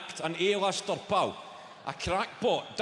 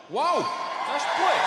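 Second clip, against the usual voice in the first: awed; 8 semitones higher, 6 dB louder than usual. Real, not acted. Awed at the huge venue.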